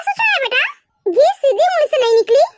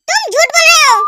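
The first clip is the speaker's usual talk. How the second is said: louder accusation; insistent louder accusation; accusing; 6 dB louder than usual. Acted. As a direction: call him out. Wife accusing husband over ice cream.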